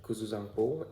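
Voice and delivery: "Kuzu Zangpo" said the native Bhutanese way; native pronunciation. Shown as a demonstration. Vlogger showing viewers the Bhutanese greeting, native pronunciation. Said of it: "difference in accent when I'm telling".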